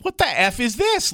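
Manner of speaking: high, slow mock disbelief; retold incredulity. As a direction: replay your bafflement, pitch jumping up. Retells baffled reaction to seeing them.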